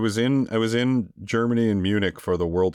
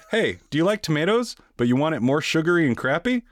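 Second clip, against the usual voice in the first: higher, hammed-up pitchman voice selling ketchup; mock ad read; 7 semitones higher than usual. Podcaster fakes a ketchup commercial to mock it, hammed-up pitchman. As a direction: sell it like a cheesy TV spot, tongue in cheek. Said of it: "I'll do an ad read for ketchup right now".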